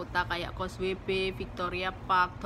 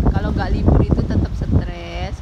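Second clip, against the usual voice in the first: shouting over wind; 13 dB louder than usual. Real, not acted. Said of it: "anginnya gede banget".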